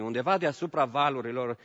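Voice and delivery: usual speaking voice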